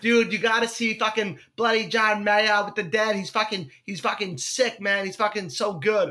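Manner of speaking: lightly imitated Boston accent; Marshall. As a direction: talk like a Boston buddy hyping a show. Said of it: "who talks like this".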